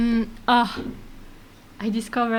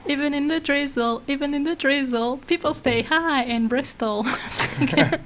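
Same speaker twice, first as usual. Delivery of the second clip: cheerful, laughing; 3 semitones higher than usual. Real, not acted. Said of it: "Sounds very cheered up".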